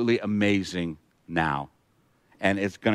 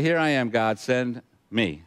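level, understated offer to serve; simply acted acceptance, at ordinary pitch; steady, lightly acted readiness with a beat before the end; willing volunteer; slower than usual. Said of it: "Or he can say".

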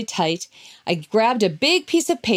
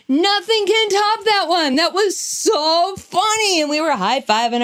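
laughing; 9 semitones higher, slower than usual. Retold or imitated. Laughing after the prank.

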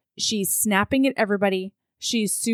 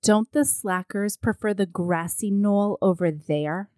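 Tai voice. Retold or imitated. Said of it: "You do a good Thai voice".

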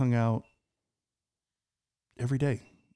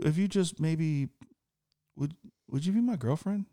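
hesitant, halting lead-up to a corny ask; corny proposal; 5 dB quieter than usual. Retold or imitated. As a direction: stammer toward asking someone out, cornily. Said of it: "I said it as corny as that".

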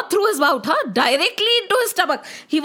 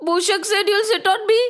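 surprised; 5 semitones higher, faster than usual. Acted. Mushak surprised at request.

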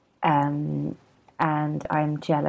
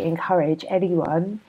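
talking through a yawn; words stretched by a yawn. Real, not acted. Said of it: "sorry, I'm yawning".

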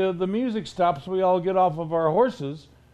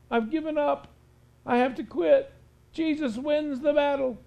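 a hint of a beaten devil moaning that he has lost; mock devil lament; 4 semitones higher than usual. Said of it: "he's just crying in his hands".

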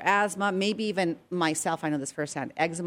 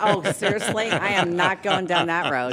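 laughing, louder protest; amused disbelief; 5 dB louder than usual. Real, not acted. Guest reacting to co-host's toilet joke, laughing.

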